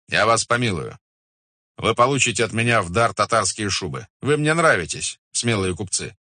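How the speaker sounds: lightly voiced imperious khan, granting favours; Batu Khan, magnanimous ruler. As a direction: pronounce mercy from the throne. (властный, милостивый хан)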